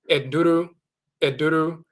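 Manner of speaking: "eduru" said eh-doo-roo, light rolled middle; Akan word. Shown as a demonstration. Teacher demonstrating the Asante word "eduru" twice. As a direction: sound out "eduru" twice, clearly. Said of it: "when they say medicine".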